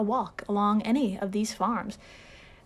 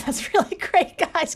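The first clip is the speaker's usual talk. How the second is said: mock praise; 7 semitones higher, 4 dB louder than usual. Mock praise of cocaine shrimp.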